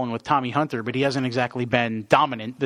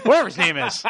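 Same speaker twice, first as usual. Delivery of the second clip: laughing; 6 semitones higher, 3 dB louder than usual. Real, not acted. Embarrassed over the name.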